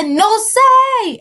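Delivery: put-on high squeaky childish no; little girl voice. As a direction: say it as a tiny kid. Child telling cops.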